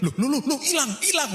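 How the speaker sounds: high, rising "loh, loh" in wonder; amazed disbelief. Retold or imitated. Wife feeling the fever leave his legs, high amazed exclamations. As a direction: sound stunned as the fever just disappears.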